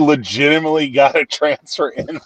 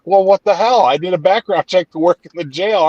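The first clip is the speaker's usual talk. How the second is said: higher-pitched mock indignation; imitating indignant customer; 6 semitones higher than usual. Clerk retells a customer denied a pistol, mock indignant. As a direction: retell her protest in a raised pitch.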